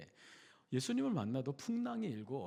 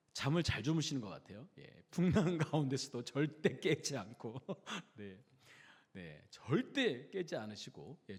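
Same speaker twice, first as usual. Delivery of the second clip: normal talking voice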